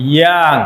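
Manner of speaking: "ইয়াং" drawn out in one unbroken beat; one-syllable demonstration. Shown as a demonstration. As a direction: hold "ইয়াং" as a single long syllable. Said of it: "এটা কিন্তু এক syllable বিশিষ্ট".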